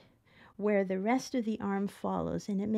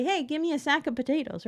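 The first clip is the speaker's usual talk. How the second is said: quick, higher pitched curt "Hey" order; blunt order; 4 semitones higher, faster than usual. Shown as a demonstration. Customer barking a potato order quickly and curtly. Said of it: "We kinda shout it out".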